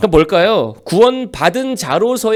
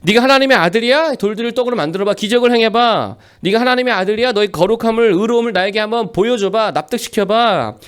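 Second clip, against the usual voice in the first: taunting devil. Acted. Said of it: "마귀가 와서 묻습니다".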